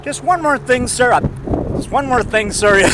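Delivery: a mild Columbo impression, repeating politely. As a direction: Columbo pestering Robert Conrad, lightly imitated. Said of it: "He tells that to Robert Conrad".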